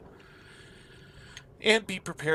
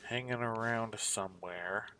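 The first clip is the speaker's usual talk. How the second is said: whispering; slower than usual. Real, not acted. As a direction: breathe it, barely voiced. Searching map, musing aloud.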